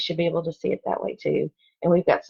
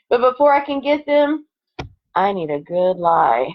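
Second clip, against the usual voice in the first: lively storybook read-aloud; expressive picture-book narration; reading to children; 3 dB louder than usual. Acted. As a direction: read it like story time for second graders. Reads picture book to class.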